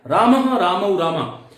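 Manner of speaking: रामः रामौ रामा with a clear visarga echo on रामः, said slowly; रामः said as "ramaha", slow and careful; correct Sanskrit recitation. Shown as a demonstration. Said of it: "राम रामौ रामा नहीं होता है".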